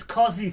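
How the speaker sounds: COZY as "KAW-zee", open vowel, no glide; own pronunciation. Shown as a demonstration. Streamer showing chat how they say it, own pronunciation. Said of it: "is cozy for me".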